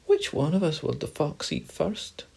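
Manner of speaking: high, anxious mouse voice; frightened mouse. Acted. Mouse fearing the fox, high and frightened. Mouse afraid of being eaten.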